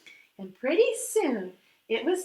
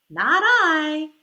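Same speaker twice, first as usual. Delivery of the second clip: a loud, blunt "no" from the duck; loud refusal; 7 dB louder than usual. Acted. Duck refusing to help the little red hen, loud blunt refusal. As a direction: bark it out, flat refusal.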